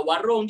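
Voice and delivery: warung said with an o sound, waroŋ; casual waroŋ. Shown as a demonstration. Teacher mimicking how students casually say warung. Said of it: "kita nak sebut pun macam".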